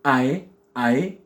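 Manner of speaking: "ae" as an A run into an E; isolated demo sound "ae"; glued A-E vowel. Shown as a demonstration. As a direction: glide from a to e in "ae". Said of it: "un A avec un E qui sont collés".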